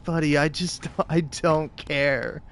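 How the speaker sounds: soft, slow, laughing dismissal; quiet chuckling brush-off. Retold or imitated. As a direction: laugh through the words. Laughing at manager.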